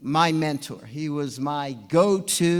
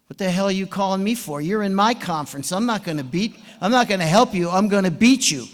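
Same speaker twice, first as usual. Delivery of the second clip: louder, gruff refusal; mock angry coach; 4 semitones higher, 5 dB louder than usual. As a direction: snap it like an irritated rival coach. Rival coach refusing angrily.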